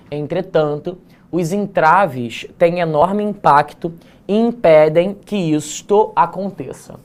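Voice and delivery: measured, slow reading of a student text; essay read aloud. Acted. Teacher reading a student's essay to the class, slow and formal.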